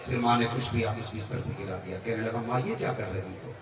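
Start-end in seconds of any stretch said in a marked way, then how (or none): 2.5-3.5 asked gently, a little softer, still patient; "माँ, ये क्या कर रही हो?" as a mild, patient question; polite complaint. Retold or imitated. Son, woken again, gently asks his mother, patient. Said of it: "देखो, लहजा बदल गया दो बार में".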